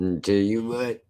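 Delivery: lightly voiced Southern simpleton; dumb-people voice. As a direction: put on a mild dim-witted Southern voice. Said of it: "that's my voice for a lot of, uh, dumb people".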